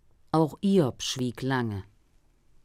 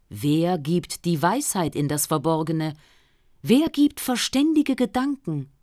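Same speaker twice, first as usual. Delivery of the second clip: God speaking; 2 semitones higher, 4 dB louder than usual. Acted. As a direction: speak as God from within, calm and grave. God answers Job.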